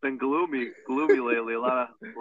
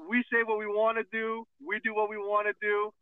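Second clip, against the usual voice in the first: defiant; 5 semitones higher than usual. Pretend. Defiant proclamation, wrestling style.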